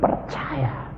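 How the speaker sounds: high, slow, drawn-out praise; put-on delirious singsong voice; imitated giddy praise. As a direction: mimic someone between weeping and laughing. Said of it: "lalu bil-, ketawa-ketawa".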